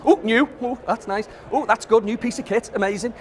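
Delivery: playful nod to a gadget-mad magpie. Retold or imitated. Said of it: "When I say the magpie".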